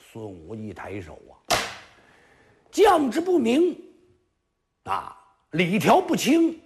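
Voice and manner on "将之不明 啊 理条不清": high, slow, declaiming classical words; solemn general. Acted. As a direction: pronounce it like a stern general. Sun Wu formal self-blame. (孙武一字一顿庄重宣告)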